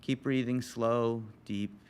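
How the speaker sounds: calm, measured breathing guidance; guided meditation. Real, not acted. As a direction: guide listeners into stillness, leaving long pauses.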